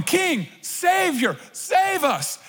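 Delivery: a stretched-out imitated hail; retold crowd shout. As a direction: echo the crowd's cry without full volume. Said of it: "they're all shouting".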